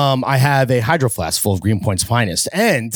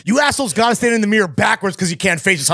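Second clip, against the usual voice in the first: lightly voiced Joel Santana, higher and fast; a hint of a Joel Santana diss, rattled off quick; quoting Joel Santana; 7 semitones higher, faster than usual. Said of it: "Joel Santana says".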